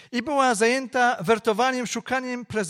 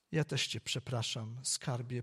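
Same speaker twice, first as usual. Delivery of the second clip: tearful apology; 8 semitones lower, 12 dB quieter than usual. Acted. Mother apologises, moved.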